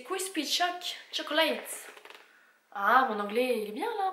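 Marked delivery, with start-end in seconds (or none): 0.0-1.9 « Crispy Choc Chocolates » lu lentement avec un accent français; French-accented English. Real, not acted. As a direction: read the English brand name slowly in a French accent. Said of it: "mon petit accent". (anglais avec un petit accent français, lentement)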